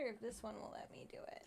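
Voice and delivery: whispered. Real, not acted. Whispered aside.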